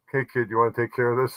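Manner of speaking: ordinary talk, nothing marked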